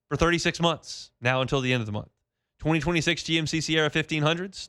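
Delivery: upbeat host-read sponsor spot; live dealership spot read by the host; radio ad read. Acted.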